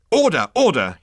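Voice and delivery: high, loud yapping call; yapped. Acted. Consultant calling the meeting to order, yapping. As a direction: bark for order like a small dog. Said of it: "yapped the management consultant".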